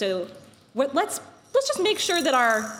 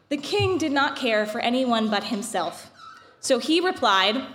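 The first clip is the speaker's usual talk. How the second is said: epic fantasy narrator. A narrator's reading. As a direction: tell it like an old legend. Reads the Purim story aloud.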